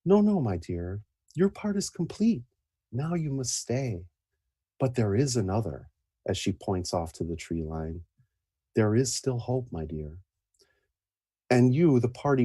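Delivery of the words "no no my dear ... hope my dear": tender mother voice. Acted. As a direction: coax her gently to stay. Mother voice continues.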